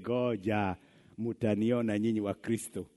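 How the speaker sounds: lightly voiced sneering neighbor; scheming neighbor. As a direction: plot it to yourself.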